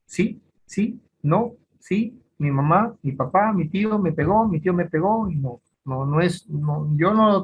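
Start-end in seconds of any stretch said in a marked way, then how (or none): 0.0-5.3 a hint of a child answering on cue; coached child. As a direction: imitate a child giving rote answers. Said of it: "el niño puede decir todo".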